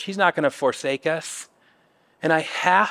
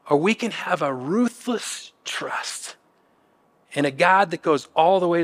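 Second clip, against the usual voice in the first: near whisper. Real, not acted. Intimate appeal to the congregation.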